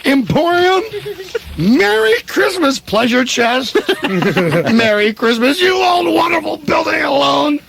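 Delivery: overjoyed shouting. Acted. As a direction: shout with the joy of getting your life back. George greets the whole town.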